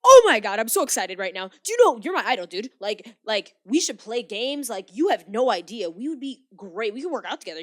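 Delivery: loud, high, gushing fan impression; over-the-top fanboy outburst; mock freaking out. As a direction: imitate a starstruck fan gushing at full volume. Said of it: "he's freaking out".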